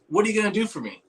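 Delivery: high-pitched character impression; Todd. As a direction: pitch it up in his voice. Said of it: "he goes, in his voice".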